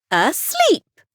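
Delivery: high, proud little fairy voice. Acted. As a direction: present it like a tiny fairy showing a treasure. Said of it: "said the fairy".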